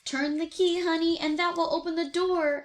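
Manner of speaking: pushing Honey to act fast; eager tiger. Acted. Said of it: "as Timmy shook the bars".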